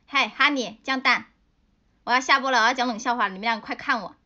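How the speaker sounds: loud call for attention. Real, not acted. Streamer calling viewers back before logging off, loud. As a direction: raise the voice so the chat looks. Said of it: "calling viewers to watch".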